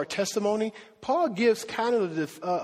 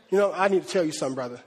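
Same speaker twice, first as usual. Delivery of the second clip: quick, lower and in earnest; level with them, dead serious; emphatic, for real; 3 semitones lower, much faster than usual. Shown as a demonstration. Preacher showing what "verily" means, emphatic. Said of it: "it was emphatic".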